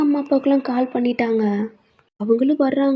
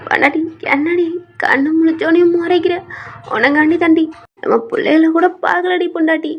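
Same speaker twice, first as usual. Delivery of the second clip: tearful pleading; 4 semitones higher, 3 dB louder than usual. Acted. Husband pleads with glaring wife.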